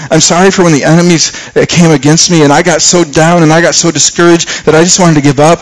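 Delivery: pleading apology. Retold or imitated. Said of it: "I'm like going".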